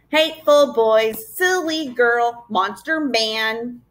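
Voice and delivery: slow mock yell of insults; taunting yell. Swamp Gaboons jeering at the children, a slow mild yell. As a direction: drag out each insult to jeer. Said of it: "they yelled".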